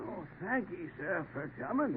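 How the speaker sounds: weak. Acted. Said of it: "I'm pretty weak".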